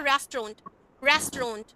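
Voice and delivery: रेस्टोरेंट said as two syllables, restron; रेस्टोरेंट reduced to restron; real pronunciation of restaurant. Shown as a demonstration. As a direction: clip the middle vowel of रेस्टोरेंट. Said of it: "हम इस तरह से बोलेंगे".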